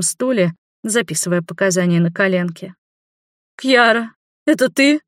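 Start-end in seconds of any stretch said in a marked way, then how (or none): 3.6-5.0 shocked surprise. A narrator's reading. Neighbour shocked to see her.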